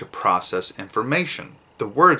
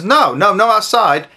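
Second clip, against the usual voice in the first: higher, louder confused mother; the mom backpedals in a panic; flustered mom; 8 semitones higher, 6 dB louder than usual. Retold or imitated. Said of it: "the mom's confused and says".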